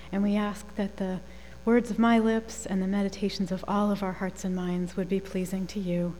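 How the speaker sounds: soft, measured congregational prayer. Acted.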